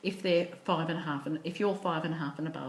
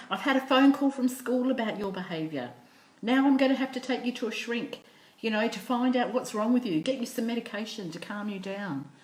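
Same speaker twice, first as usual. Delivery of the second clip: mildly acted cross mum, pitched up; a touch of fed-up telling-off; exasperated mum scolding; 4 semitones higher, 3 dB louder than usual. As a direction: lay down the law to a naughty child. Fed-up mum keeps scolding son.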